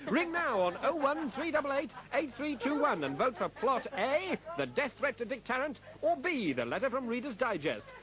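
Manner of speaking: upbeat radio ad announcer. Acted. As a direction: sell it like a phone-in promo. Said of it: "followed by an announcement".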